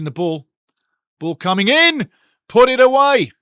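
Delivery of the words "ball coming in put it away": rising to a loud, high yell; excited shout. Real, not acted. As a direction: shout it as the ball flies in. Live goal chance commentary.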